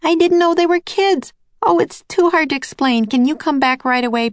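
high, frantic mild shout. A narrator's reading. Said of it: "Nancy shouted".

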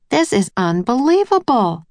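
high, aghast exclamation; disbelief. A narrator's reading. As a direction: exclaim it, mildly appalled. Nancy aghast at finding kids.

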